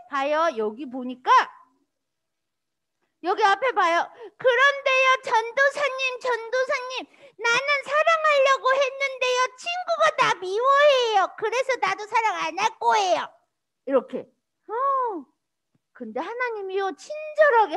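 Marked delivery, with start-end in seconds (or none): 4.4-13.3 put-on high, whiny child tattling to a pastor; acted childish protest; complaining child. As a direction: plead like a wronged little kid, high-pitched.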